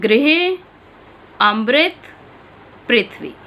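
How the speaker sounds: emphatic repeat of the three words; ृ said as री in "गृह अमृत पृथ्वी"; ri pronunciation demo. Shown as a demonstration. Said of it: "एक बार उच्चारण और देखें".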